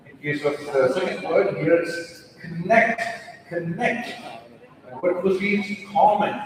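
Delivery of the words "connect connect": "connect" said slowly as two clear parts, one emphasised; stressed syllable. Shown as a demonstration. Coach showing learners word stress, "connect" slow and emphatic. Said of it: "the first part is stressed".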